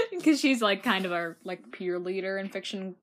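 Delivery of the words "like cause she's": laughing through words. Real, not acted. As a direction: giggle while talking. Laughs at own story.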